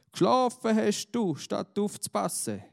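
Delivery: high, loud angry scolding. A narrator's reading. Angry master scolding the shepherd boy, loud and high. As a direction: scold him hard, voice up and loud. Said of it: "schimpft der Abton".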